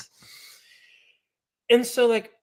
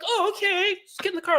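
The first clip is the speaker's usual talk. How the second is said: organizer voice. Retold or imitated. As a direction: play the organizer greeting, pitched way up. Organizer answering.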